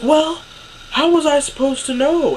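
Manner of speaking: high, loud mock-mom protest; indignant, high-pitched comeback; defensive protest. Retold mother's defensive reply in argument.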